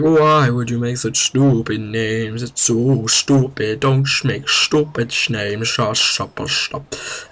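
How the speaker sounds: slow, dragged-out silly rant; hammed-up complaint, playing dumb; mock exasperation. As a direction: stretch the words in put-on disgust. Mock rant at planet namers.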